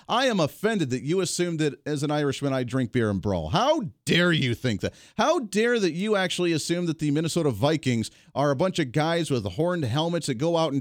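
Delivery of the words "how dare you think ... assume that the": sarcastic outrage. Pretend. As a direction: drag out the fake offence.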